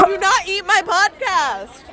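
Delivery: laughing, half-crying protest; laughing shriek. Real, not acted. Friend grabs phone, laughing.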